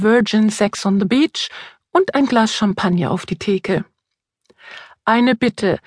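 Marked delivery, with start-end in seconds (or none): 5.0-5.8 wet lisp on every s; slushy lisp. Acted. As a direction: speak with a heavy slushy lisp. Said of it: "lispelt der Osterhase". (stark lispelnd)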